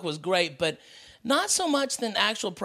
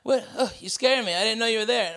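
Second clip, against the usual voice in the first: higher and louder mock startled gasp; startled wife; 4 semitones higher, 3 dB louder than usual. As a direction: play the wife caught off guard by a sneaking husband. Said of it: "she was like".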